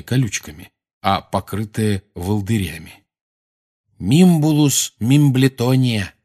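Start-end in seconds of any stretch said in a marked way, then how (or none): 4.0-6.1 slow, proud and deliberate; proudly. A narrator's reading. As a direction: present the name with pride, slowly. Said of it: "гордо проговорил он".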